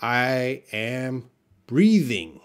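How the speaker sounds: slowly, drawn out; slow demo. Shown as a demonstration. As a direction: say it slowly, showing. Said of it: "what am I doing now?".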